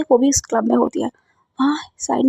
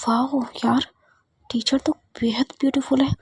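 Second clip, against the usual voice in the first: awed whisper; 2 semitones lower, 6 dB quieter, slower than usual. Acted. Friend admires teacher quietly.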